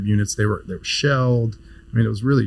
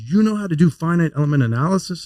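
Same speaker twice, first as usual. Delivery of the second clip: lightly imitated surprise, rising and higher; surprised question; 7 semitones higher than usual. Chief resident on the couch perking up at the student, surprised. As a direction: catch him off guard, pleased. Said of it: "points at me, he goes".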